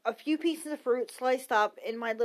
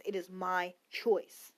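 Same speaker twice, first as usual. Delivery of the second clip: slow, deliberate stress on "choice"; measured pace, "choice" set apart for emphasis; 3 semitones lower, 4 dB quieter, slower than usual. Real, not acted. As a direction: lean on the word "choice", taking your time. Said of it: "emphasize the word choice".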